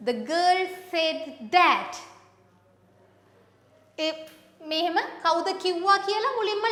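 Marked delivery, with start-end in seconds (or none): 0.1-1.9 slow read. Shown as a demonstration.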